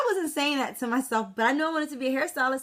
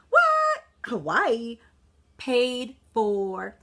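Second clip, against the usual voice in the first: surprised what; 4 dB louder, much slower than usual. Real, not acted. To her audience about the Hawaii trip, an amazed squeal.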